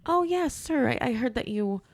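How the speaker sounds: high, placating agent tone; acted over-polite phone manner; polite customer-service voice. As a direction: soothe an upset caller sweetly. Acting polite agent to caller.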